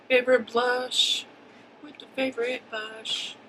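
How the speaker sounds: slowly, deliberately stressing favorite; slow careful rhyme. Shown as a demonstration. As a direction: spell out favorite blush slowly.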